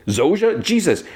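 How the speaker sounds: high-pitched mock panic; alarmed cry. Friend starts convulsing, she panics.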